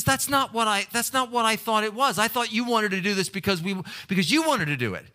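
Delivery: retold wife's voice, high and hurt; upset wife. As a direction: play the wife getting worked up. Wife protests in retold argument.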